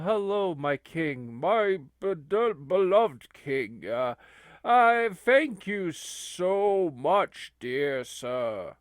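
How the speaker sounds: slow, deferential address to royalty; reverent subject. Acted. Grateful subject greeting King Charles, slow and reverent. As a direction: address the monarch with drawn-out reverence. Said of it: "he's like".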